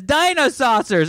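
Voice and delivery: high, drawn-out shout of the title; imitated exclamation. Host imitating co-host's cartoon cry, high exclamation. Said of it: "Allison says".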